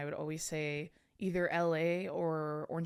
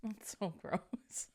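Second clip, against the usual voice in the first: disgusted drawl; 3 semitones higher, 7 dB quieter, much slower than usual. Real, not acted. Disgust at rotting plan.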